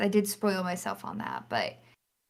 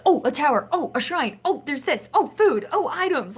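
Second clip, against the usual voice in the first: higher, bursts of delighted discovery; each Oh a fresh pitched-up find; distracted excitement; 6 semitones higher than usual. Player sidetracked by each new sight, retold with excited bursts. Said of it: "I was so distracted by everything".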